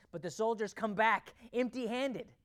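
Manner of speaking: ordinary talk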